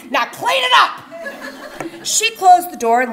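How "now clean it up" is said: higher, louder barked command; mom's shouted final command; sharp order. Retold or imitated. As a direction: snap the order at the kids. Mother ordering the kids.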